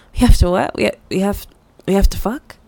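halting, repeated question with loud bursts; can't believe what was just said; stunned disbelief. Acted. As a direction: stammer it back, rising at the end. Stunned at the proposed cure.

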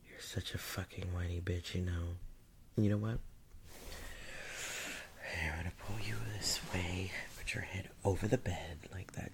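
whispering. Acted. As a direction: hiss the orders softly. Whispered commands during the scene.

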